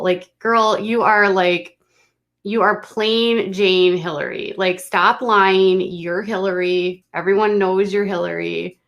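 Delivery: exasperated call-out. Real, not acted. Scolding the influencer directly.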